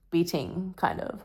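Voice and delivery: unvoiced whispered aside. Real, not acted. Vlogger whispering a quick aside to her viewers. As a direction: breathe the words out with no voice.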